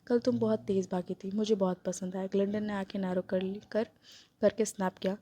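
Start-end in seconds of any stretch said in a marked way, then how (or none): 0.1-2.3 low playful. Acted. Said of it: "low playful voice में बोला".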